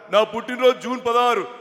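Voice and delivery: lightly voiced politician; వి Hanumantharao impression. Politician giving his own birthday, mimicked. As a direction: answer in the mimicked voice, emphatically. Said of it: "Hanumantharao గారి bit ఒకటి చెప్పేసి".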